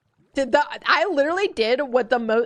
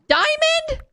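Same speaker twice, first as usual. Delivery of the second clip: higher, louder excited disbelief; surprised; 13 semitones higher, 5 dB louder than usual. Real, not acted. Finding a diamond while mining, loud surprised delight. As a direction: gasp it out, can't believe the luck.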